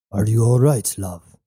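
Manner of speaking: a hint of tender worry; gentle concern. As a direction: ask it gently, like to a loved one. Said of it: "he said gently".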